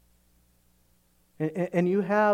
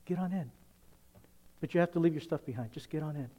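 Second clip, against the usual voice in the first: gentle invitation; 6 dB quieter, faster than usual. Retold or imitated. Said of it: "Jesus says".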